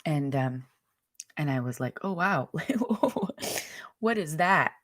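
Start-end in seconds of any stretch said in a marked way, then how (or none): 2.0-4.7 a higher, amazed laugh of surprise; retelling the amazement at the voice in her mind; surprised wonder. Retold or imitated. Her own surprised reaction, high and amazed. Hearing the voice for first time.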